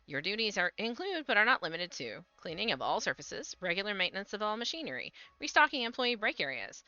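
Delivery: reading a corporate memo; formal read. Acted. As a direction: stiff announcement read. Reads in-game orientation text.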